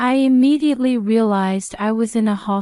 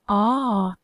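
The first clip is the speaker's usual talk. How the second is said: a sudden sharp "ah" as she falls; short cry of pain; 3 dB quieter than usual. A narrator's reading. Pregnant mother falling in the bathroom cries out. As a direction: yelp as you slip and fall. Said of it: "I cried out as I fell backward".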